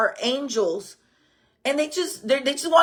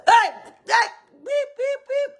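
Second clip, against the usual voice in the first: hood rat voice; 11 semitones higher than usual. Shown as a demonstration. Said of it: "But I also have".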